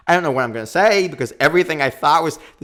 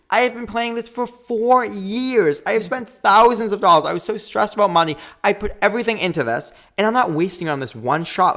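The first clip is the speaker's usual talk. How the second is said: much higher and louder, fed up; exasperated outburst; 8 semitones higher, 4 dB louder than usual. Retold or imitated. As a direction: blurt it out like you're done with everything. Retelling her frustration to Garrett.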